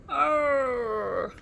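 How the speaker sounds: short loud growl from a hidden dinosaur; a shuddering growl from inside the bush. A narrator's reading. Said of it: "shuddered the bush".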